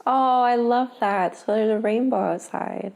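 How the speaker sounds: high, glad wonder; delighted. Real, not acted. Spotting the rainbow with her partner, high glad wonder. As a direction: let the wonder lift the voice.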